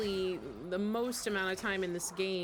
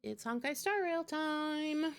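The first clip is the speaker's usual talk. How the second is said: higher, slow game-time announcement; excited announcement; 7 semitones higher than usual. Real, not acted. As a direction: announce it like a show opener.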